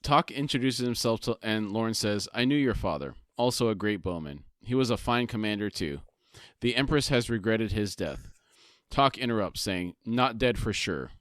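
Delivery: measured read-aloud summary; story narration. A narrator's reading. Co-host reads the book summary to his partner, story narration. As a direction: narrate the scene with deliberate phrasing.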